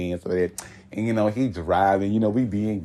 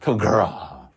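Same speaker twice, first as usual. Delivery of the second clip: mocking gay boy talk; slower than usual. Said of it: "that's how punks talk".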